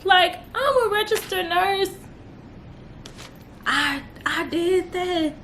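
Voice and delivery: fighting back tears of pride; close to tears. Real, not acted. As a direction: voice catching with emotion, near tears. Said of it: "I'm gonna cry right now".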